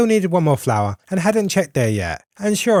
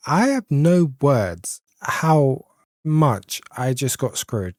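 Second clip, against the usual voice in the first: stunned disbelief; 2 semitones lower, much slower than usual. Real, not acted. Losing the fight, gasp.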